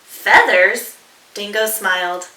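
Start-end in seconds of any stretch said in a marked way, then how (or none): 0.1-0.9 louder rising surprise; surprised. Acted. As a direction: query it in surprise. Dingo surprised.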